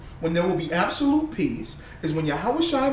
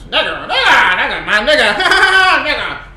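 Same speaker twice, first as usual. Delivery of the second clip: mock repetition; 4 semitones higher, 10 dB louder than usual. Imitating Rogan saying slur.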